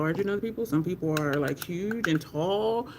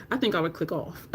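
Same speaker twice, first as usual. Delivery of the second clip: normal talking voice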